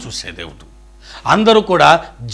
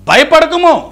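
much higher, louder cry of do not fear; ringing proclamation; 12 semitones higher, 7 dB louder, slower than usual. Retold or imitated. Preacher proclaiming Jesus' command to the congregation, ringing. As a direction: proclaim it to the whole church.

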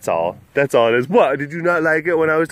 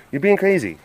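higher-pitched play scolding; high mock protest; 5 semitones higher than usual. Telling the pet it's being crazy, high mock protest. Protest eases towards usual voice.

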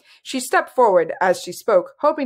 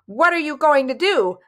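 higher-pitched, alarmed demand; mildly panicked, high question; frightened demand; 8 semitones higher, 3 dB louder than usual. A narrator's reading. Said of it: "Eleonora demanded. She was plainly frightened".

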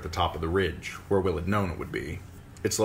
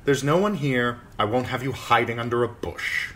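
commanding; 6 semitones higher, 3 dB louder than usual. Acted. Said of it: "Sir Waymar commanded".

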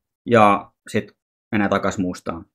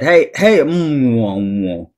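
glitching garbled voice; much slower than usual. Retold or imitated. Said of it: "ääni vähän plurrautuu siinä".

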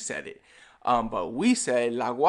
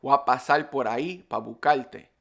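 Puerto Rican accent with "para" shortened to pa; clipped-word Puerto Rican Spanish, "buscarte" as bucalte. Shown as a demonstration. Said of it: "we'll remove the para, we'll say pa".

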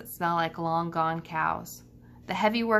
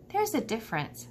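gently; 5 semitones higher, 4 dB quieter than usual. A narrator's reading. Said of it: "Stella says gently".

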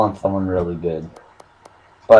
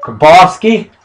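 high, drawn-out exasperated yell; mock outrage; 9 semitones higher, 6 dB louder, slower than usual. Real, not acted. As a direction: rail at the bad pull in disbelief. Disappointed by a pack pull.

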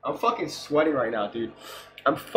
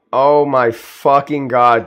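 slow, much louder drawn-out cry of disbelief; stunned disbelief; 11 dB louder, much slower than usual. Real, not acted. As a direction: stretch every word in awe. Stunned by McFlurry at door.

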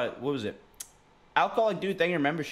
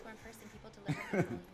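quiet chuckle; soft amused laugh; short laugh; 5 semitones higher, 9 dB quieter than usual. Real, not acted. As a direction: chuckle softly at your own joke. Laughs at own crude joke.

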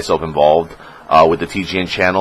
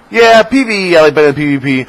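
high, louder, prissy innocent voice; mock innocent self; 9 semitones higher, 6 dB louder than usual. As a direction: say it like a goody-goody gamer. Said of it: "I'll say something like".

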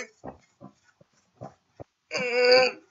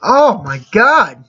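astonished; 5 semitones higher, slower than usual. Real, not acted. Astonished exclamation.

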